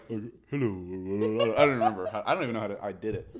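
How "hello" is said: put-on very old man. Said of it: "My old man voice was like".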